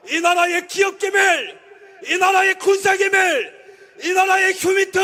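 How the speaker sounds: fiery political rally speech; roaring rallying speech. Acted. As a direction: shout it to the crowd.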